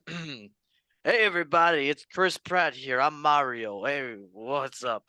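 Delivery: lightly put-on Italian Mario voice; Chris Pratt as Mario. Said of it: "I will do my Italian voice".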